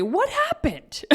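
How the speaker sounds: mock puzzled question; imitating husband. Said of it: "he was the one who mentioned".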